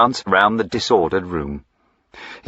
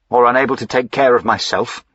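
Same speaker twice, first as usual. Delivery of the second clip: sharp, raised, quickened indignation; indignant retort; 5 semitones higher, 4 dB louder than usual. Acted. Master snapping at his servant, indignant and raised. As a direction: bristle at being treated like a child.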